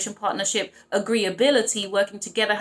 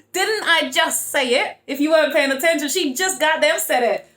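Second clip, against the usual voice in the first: triumphant exclamation; 5 semitones higher, 5 dB louder than usual. Real, not acted. Reader proved right by the card, excited crowing. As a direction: draw out each word in triumph.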